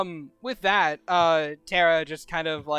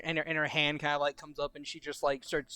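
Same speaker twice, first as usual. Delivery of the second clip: normal talking voice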